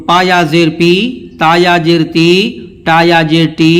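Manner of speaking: "پایا زیر پی" drill with a long, stretched "پی"; drawn-out vowel. Shown as a demonstration. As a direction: hold the final ee of "پی", "تی", "ٹی". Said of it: "کھینچ کے بھی پڑھا جائے گا".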